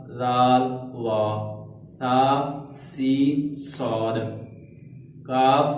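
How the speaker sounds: each Arabic letter said separately, with a pause between; letter-by-letter recitation. Shown as a demonstration. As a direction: sound out each letter clearly from its own point of articulation. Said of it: "वो ये हैं".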